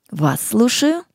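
ordinary talk

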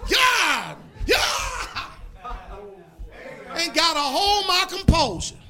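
loud, high cries of God; fiery preaching. Acted. Preacher crying out to the congregation at full force. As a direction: preach it out at the top of your voice.

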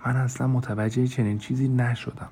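a hushed reply, holding back; softly. Acted. Lena quietly doubts Grace's praise, hushed. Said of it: "لنا آهسته گفت".

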